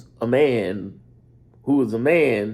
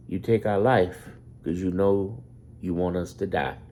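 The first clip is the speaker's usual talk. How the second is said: ordinary talk, nothing marked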